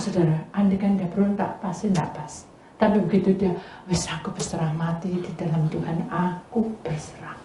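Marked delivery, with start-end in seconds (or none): 3.9-7.4 soft, slowing whisper of giving up; whispered prayer of surrender; hushed surrender. Retold or imitated. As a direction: let go in a near whisper.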